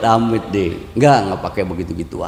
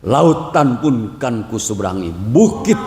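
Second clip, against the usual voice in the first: poetic romantic vow; slower than usual. Retold or imitated. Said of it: "saya kata begini".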